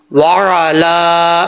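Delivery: very slow वाला with a throat ain mid-word; wa, squeezed ain, then long "laa" in वाला; correct ain. Shown as a demonstration. Teacher correcting the mistake, drawn-out recitation. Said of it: "इसको लंबा करेंगे एक अलिफ".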